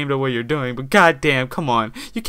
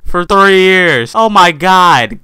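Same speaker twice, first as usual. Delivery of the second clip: amazed; 3 semitones higher, 7 dB louder, much slower than usual. Real, not acted. Amazed at upload count.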